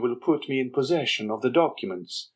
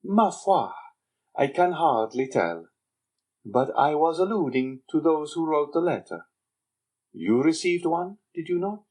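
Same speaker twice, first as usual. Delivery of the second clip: put-on sly young Andrea; 6 semitones higher than usual. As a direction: needle the Major with sly contempt. Andrea plays the dutiful son.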